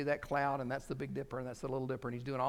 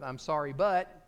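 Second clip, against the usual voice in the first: high, loud, protesting non-apology; defensive mock apology, pitched up; mock excuse-making apology; 7 semitones higher, 6 dB louder than usual. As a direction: hang insistently on the excuse. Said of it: "I'm not gonna start with".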